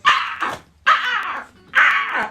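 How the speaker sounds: high mock squawks; imitated bird cries. Birds menacing a baby sea turtle, imitated squawks. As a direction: screech like seabirds, playfully. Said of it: "and birds are like".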